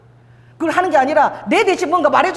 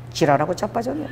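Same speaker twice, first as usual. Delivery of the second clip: low Busan dialect retort, lifting at the end; 4 semitones lower, 5 dB quieter than usual. Retold or imitated. God cutting short a tearful prayer, in Busan dialect. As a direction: drop a dry Busan dialect put-down. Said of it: "이게 부산 말이거든요".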